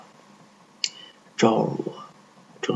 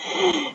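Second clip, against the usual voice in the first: high ghostly cackle; evil cackle; 7 dB quieter than usual. Acted. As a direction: cackle mid-sentence like a ghost. Evil doctor laughs. (诡异的尖笑)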